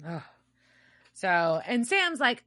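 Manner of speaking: ordinary talk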